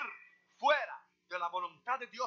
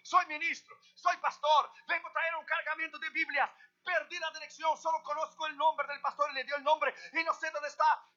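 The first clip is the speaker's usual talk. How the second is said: nervous shouting; 10 semitones higher than usual. Retold or imitated. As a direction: blurt it all out to the soldier, terrified. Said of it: "Tienes que gritar para que toda la Plaza Roja te pueda oír".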